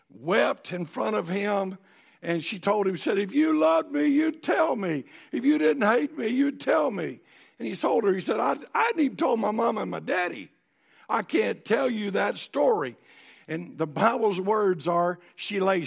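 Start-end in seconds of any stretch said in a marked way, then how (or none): 3.2-7.2 high, loud, pleading whine; pleading wife. Retold or imitated. 8.4-13.0 exasperated refusal. Retold or imitated. Samson refuses his wife.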